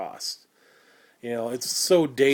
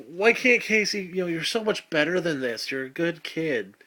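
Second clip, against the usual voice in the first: much higher, whiny fake concern; mock pleading adult; 5 semitones higher than usual. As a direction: plead with Casey in a sugary voice. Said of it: "everybody's like".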